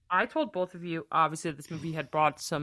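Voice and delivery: muffled behind a hand; talking through your fingers; hand over mouth. Real, not acted. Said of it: "You have your hand over your mouth".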